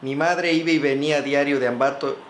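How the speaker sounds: projected, carefully phrased memoir reading; story narration. Real, not acted. Author reads of his first cadet days, story narration. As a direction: read it out as a narrator, in full rounded sentences.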